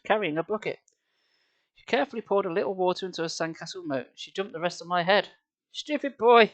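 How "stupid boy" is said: put-on squealing girl. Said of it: "she squealed".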